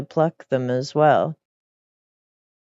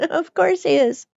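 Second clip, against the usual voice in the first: amused aside; 13 semitones higher than usual. Real, not acted.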